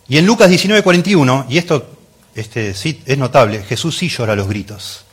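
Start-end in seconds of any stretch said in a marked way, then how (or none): 0.1-1.9 anuncio entusiasta. Real, not acted. Anuncia pasaje con énfasis.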